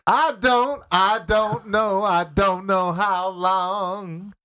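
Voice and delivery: Deep-voiced singer voice. Pretend. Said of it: "a singer has, uh, ruined his welcome".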